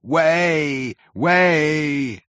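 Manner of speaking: high, drawn-out calls; angry shouting. A narrator's reading. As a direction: demand a clear path from behind. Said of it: "shouted angry voices behind".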